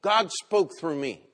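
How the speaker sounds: loud, high, gushing woman; hammed-up grateful lady at the door; mock thrilled lady. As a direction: gush like she's been praying for this. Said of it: "the lady that answered the door said".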